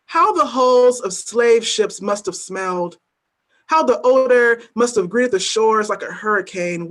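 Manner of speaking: deliberate, weighty spoken-word recitation; a poet performing at a reading; spoken word poem. Acted. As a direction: lay each image down slowly, letting the refrain land. Reads her poem aloud.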